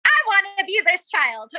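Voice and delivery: high, eager fangirl gush; squealing wannabe fan. Retold or imitated. Fangirl quoting own wish.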